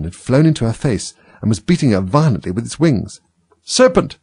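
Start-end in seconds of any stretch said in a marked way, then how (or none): 3.6-4.2 high-pitched storybook scream; sudden high alarm call, acted. A narrator's reading. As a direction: cry it out very high, a contained shriek. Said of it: "screamed the pigeon".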